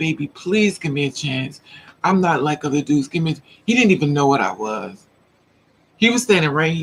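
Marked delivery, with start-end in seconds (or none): 0.0-3.4 pleading voice. Retelling how a guy begged for a chance: imitating someone pleading. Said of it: "He begged me down".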